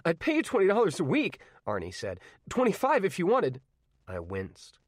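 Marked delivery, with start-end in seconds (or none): 0.1-1.4 higher, louder pushy offer; eager teen bargaining with an old man. Acted. Arnie bargains. 2.5-3.6 higher, louder pushy offer; eager teen bargaining with an old man. Acted. Arnie raises his offer.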